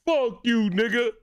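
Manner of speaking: loud joking yell; playful shout. Real, not acted. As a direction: yell it in mock outrage.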